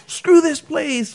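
high, slow mock yell; hammed-up high outburst, stretched slowly; imitated angry customer. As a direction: drag out the curse like a sore customer storming off. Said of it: "using profanity".

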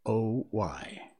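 slow, reflective spoken lyrics; poem recitation. Acted. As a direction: recite it line by line with long pauses, fading to a hush at the end. Recites song lyrics to close.

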